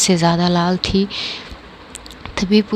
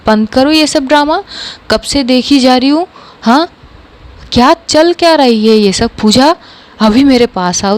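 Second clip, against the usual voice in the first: mother yelling to stop the drama, raised voice; mock shout. Mother scolds daughters at the scene, mild shout. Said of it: "चिल्ला के बोलती है".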